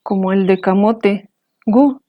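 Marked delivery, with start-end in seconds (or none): 1.6-2.0 gu said on a high pitch. Shown as a demonstration. Teacher showing high tone of camote, high. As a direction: lift gu up high. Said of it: "terminamos con un tono alto".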